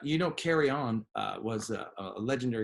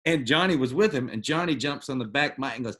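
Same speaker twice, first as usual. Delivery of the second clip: ordinary talk, nothing marked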